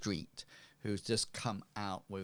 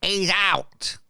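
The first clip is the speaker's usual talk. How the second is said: loud, high yell across a street; shouted call; 11 semitones higher, 14 dB louder than usual. Acted. Robust lady shouting across the street to strangers, loud call. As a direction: call it out sharply to someone far off. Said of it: "And she shouts, uh, across to you".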